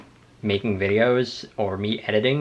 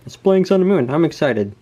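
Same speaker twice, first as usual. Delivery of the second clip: excited; 7 semitones higher, 4 dB louder than usual. Retold or imitated. Reading excited journal entry aloud.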